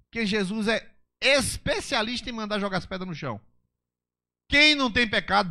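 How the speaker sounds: high, loud pulpit preaching; fiery preaching. Acted. Pastor preaching to the congregation, fiery and loud. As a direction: preach it with full force from the pulpit.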